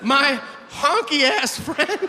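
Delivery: shouting the punchline about his friend; mock shout. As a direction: holler it out and stretch it.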